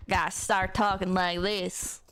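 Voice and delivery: low cowboy sheriff drawl. Shown as a demonstration. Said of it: "that's not very sheriffy".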